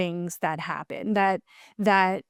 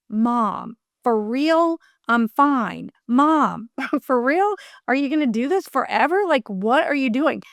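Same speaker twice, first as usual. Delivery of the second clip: lightly voiced exasperated son, a bit higher; imitated fussing; 3 semitones higher than usual. Son fussing at his crying mom, imitated mild fussing. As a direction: mildly fuss at Mom in quick questions. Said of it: "fussing at me almost".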